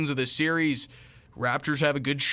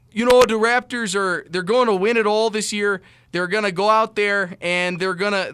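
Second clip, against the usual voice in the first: loud, high excited rapper voice that fades back toward normal; impression of a famous rapper; 4 semitones higher, 5 dB louder than usual. Vlogger imitates a famous rapper boasting that the Raptors will win, loud and excited, then easing off. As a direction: gloat like a rapper who is sure the Raptors win it all. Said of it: "that was the best Drake accent ever".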